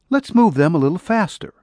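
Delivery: lightly voiced ranch woman urging speed; her voice. Woman's lines voiced higher.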